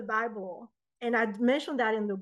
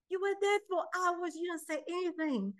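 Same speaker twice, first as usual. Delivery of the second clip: incredulous; 7 semitones higher, 4 dB quieter than usual. Retold or imitated. Party guests challenge her silence.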